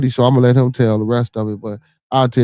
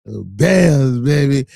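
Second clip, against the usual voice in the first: louder, higher fan shout; excited team cheer; 4 semitones higher, 6 dB louder, much slower than usual. Real, not acted. Fan celebrating his Bears on stream, excited shout. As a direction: holler it proudly for your team.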